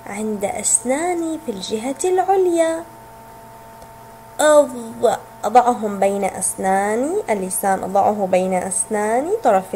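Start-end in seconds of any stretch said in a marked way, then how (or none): 4.4-5.2 "أض-" held with tongue tip between the teeth; letter sound demo. Shown as a demonstration. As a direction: demonstrate the emphatic interdental ẓ in "أض-". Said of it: "نضع لساننا بين أسناننا".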